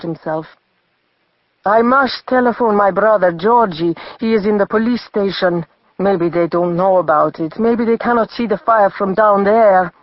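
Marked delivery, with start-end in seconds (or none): 1.7-9.9 trembling. Acted. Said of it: "He began to tremble".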